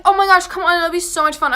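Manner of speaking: hammed-up nagging to come along; mock whiny friends. Voicing pushy friends.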